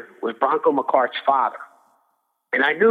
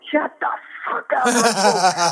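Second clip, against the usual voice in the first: slow, drawn-out retold shout, higher at the start; retold scream; 6 semitones higher, slower than usual. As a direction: snap it slowly at the pest in the corner. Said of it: "I'm screaming at him".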